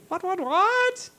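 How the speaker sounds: a startled father doing a double take; shocked dad. Retold or imitated. Dad hears his daughter lost the family money.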